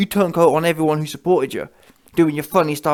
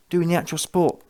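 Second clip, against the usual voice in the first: usual speaking voice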